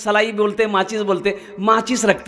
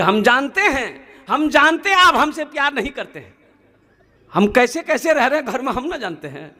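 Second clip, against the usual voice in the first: mock wifely complaint; 5 semitones higher than usual. Wife complaining to husband.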